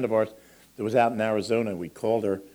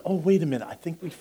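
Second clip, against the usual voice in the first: higher, excited repeated waits; mock-urgent stalling, pitched up; playful wait; 7 semitones higher than usual. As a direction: tease the child, stalling. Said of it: "Because it's".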